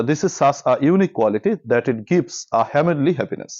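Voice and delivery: slow, deliberate reading of an English sentence, word by word; slow dictation reading. Shown as a demonstration. Teacher reads exam passage to students, slow dictation. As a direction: read it out slowly so students can follow.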